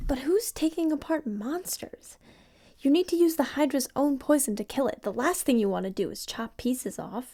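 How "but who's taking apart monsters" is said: private aside, thinking aloud, talking to herself. A woman looking over papers about monsters speaks to herself. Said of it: "(To herself)".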